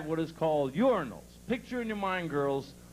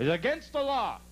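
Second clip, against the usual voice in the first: high, emphatic declaration; comic indignation; mock serious; 5 semitones higher than usual. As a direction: lay down the law with mock gravity. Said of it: "watch how serious I get on this".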